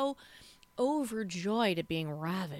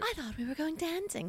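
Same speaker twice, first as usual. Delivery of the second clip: higher, hammed-up dubbed-film actress; dubbed movie voice; 7 semitones higher, 3 dB quieter than usual. Shown as a demonstration. Showing co-host how overdubs sound, hammed-up dub voice. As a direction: overplay it like a badly dubbed romance. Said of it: "That's what overdubs sound like, Michael".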